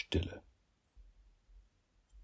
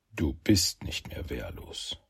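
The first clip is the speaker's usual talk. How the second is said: whispered inner thought; 5 semitones lower, 5 dB quieter, slower than usual. A narrator's reading.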